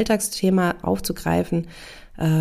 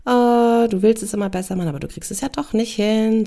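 taunting guilty conscience; 4 semitones higher than usual. Acted. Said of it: "blitzt das schlechte Gewissen auf und sagt".

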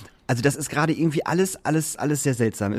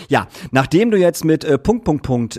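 louder, pointed mock complaint; retold reproach; 3 semitones higher, 5 dB louder, slower than usual. Organiser writes back after many contact attempts, pointed reproach. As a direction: imitate someone pointedly listing grievances.

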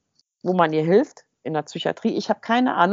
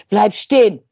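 loud, sharp order to halt; commanding yell; 6 dB louder than usual. Retold or imitated. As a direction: shout after her to stop. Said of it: "Da ist sie".

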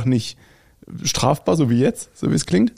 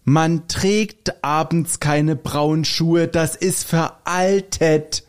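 slow, higher-pitched mock yell; retold scolding yell; 4 semitones higher, much slower than usual. Podcaster retells one man scolding another, mock yell. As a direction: draw out each word like a hammed-up reprimand. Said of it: "schrie den anderen an".

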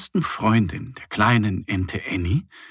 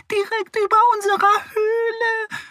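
scolding mice. Acted. Forest mice scold about the snoring boar, squeaky. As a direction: squeak out your complaint. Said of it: "meckern die Mäuse".

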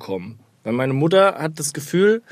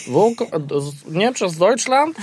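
put-on higher, slow Polish-accented taxi driver; 8 semitones higher than usual. Host imitating a Warsaw taxi driver bragging in a Polish accent. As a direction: play a proud Warsaw cabbie with a Polish accent. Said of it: "jeder Taxifahrer sagt dir".

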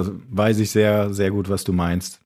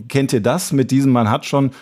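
ordinary delivery

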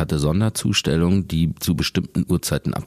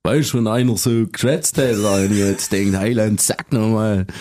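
playful Swabian imitation; Swabian dialect; 5 semitones higher than usual. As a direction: slip into broad Swabian. (schwäbischer Dialekt)

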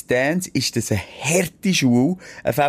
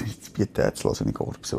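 talking through a burp; low, croaky burp voice; 8 dB quieter than usual. Real, not acted. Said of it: "Dad-Noises von dir gibst".

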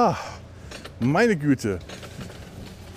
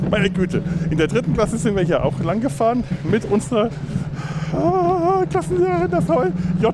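sledding downhill; 9 semitones higher than usual. Real, not acted.

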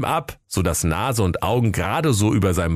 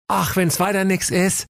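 put-on high boy voice; 11 semitones higher than usual. Pelle speaks.

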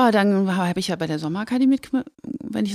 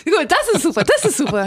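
laughing; 7 semitones higher, 3 dB louder than usual. Real, not acted. Laughing after joke.

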